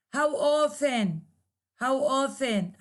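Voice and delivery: "How often" falling on "often"; falling intonation. Shown as a demonstration. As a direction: let "often" glide down. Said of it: "there is a falling intonation".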